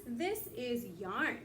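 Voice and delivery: slow, careful reading of This is yarn. Shown as a demonstration. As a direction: read This is yarn word by word. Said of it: "getting used to reading short sentences".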